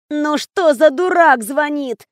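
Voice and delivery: slow, sleepy grumble; just woken by the phone. Acted. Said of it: "сонным голосом откликнулась Валька". (сонным голосом)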